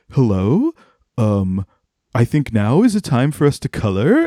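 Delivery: lightly voiced sing-song babysitter; babysitter Lisa voice. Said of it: "she just is like".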